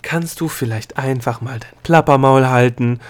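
loud, exasperated telling-off; snapped rebuke. A narrator's reading. Gnome silencing the chattering girl, snapping loudly. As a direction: bark it out, patience gone. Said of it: "schnauzte der Gnom".

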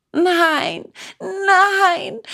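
put-on high pleading child, a touch tearful; sobbing puppet. A narrator's reading. Bengele begging his father for feet, mildly tearful. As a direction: beg with a hint of sobbing. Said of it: "schluchzte Bengele".

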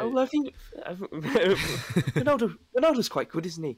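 botched Geordie impression that comes out Irish; accidental Irish accent. Steve Bruce rambling about Ronaldo, accidental Irish accent. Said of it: "I don't know why I went Irish there".

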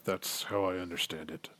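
low-key grudging answer, half to yourself; under his breath. Acted. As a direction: say it barely under your breath. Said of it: "barely under his breath".

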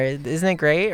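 mock the fake cheerful girl; high hammed-up bubbly voice. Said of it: "this very positive, cheerful delivery".

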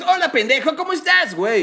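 hammed-up Latin American dubbing voice; lively Mexican dub. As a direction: throw it out like an over-the-top Mexican dub. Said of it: "Y el otro pendejo es".

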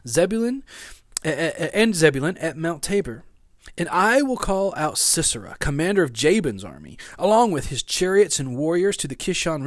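animated Bible story reading; Scripture reading. Acted. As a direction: read Scripture aloud with emphatic, lifted phrases.

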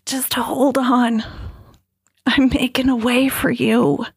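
measured, earnest quoting of the text; solemn slow reading. Retold or imitated. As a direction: read the message out slowly like a lifeline. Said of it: "And the text said".

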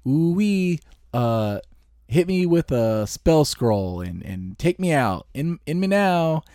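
a first rough try at a small spider; early spider voice. Shown as a demonstration. Trying out a small spider voice while driving, lightly voiced creature. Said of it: "What would this spider say".

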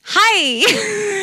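high, bright squealed greeting; natural voice returning. Retold or imitated. She greets the Uber, put-on voice gone, high. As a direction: pop up high for a perky hello. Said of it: "And the voice is gone".

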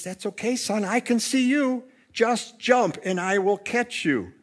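acted fatherly comfort; reassuring father. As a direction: gently coax a scared child, voice lifted. Father reassures his frightened son.

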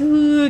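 quick high mock wail; retold wailing sound; imitated crying. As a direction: mimic a sobbed "huu". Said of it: "dari yang nangis".

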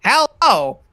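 slow robotic movie review. Acted. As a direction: speak like a computer reviewer. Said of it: "Say something in a robot voice".

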